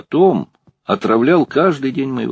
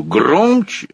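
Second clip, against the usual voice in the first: demanding; 8 semitones higher, 3 dB louder than usual. A narrator's reading. Director demands more volume.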